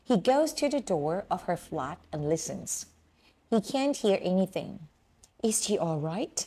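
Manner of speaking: slow, careful read-aloud of the story; slow reading of the passage. Acted. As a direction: read each sentence slowly and clearly. Plays a recorded reading of the passage.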